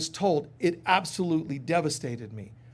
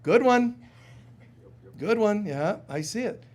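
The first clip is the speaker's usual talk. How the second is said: calm acknowledgment; 4 semitones higher than usual. Retold or imitated. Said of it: "stay in that center and go".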